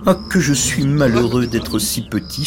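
hammed-up miserable sigh; sighing lament. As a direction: lament your own smallness. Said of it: "soupirait-il au milieu des oiseaux".

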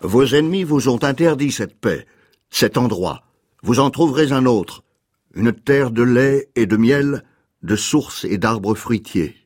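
slightly declamatory French film-dubbing voice; lightly hammed-up peplum proclamation; declamatory epic dubbing. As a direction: read it like a dubbed sword-and-sandal epic, rising then falling phrases. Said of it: "ces voix doublées françaises un peu déclamatoires".

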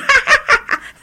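harsh cackling laugh, very high; brutal laugh. A narrator's reading. The hag laughs harshly at the lawyer, brutal cackle. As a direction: burst into a brutal witch's cackle. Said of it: "éclata du même rire brutal".

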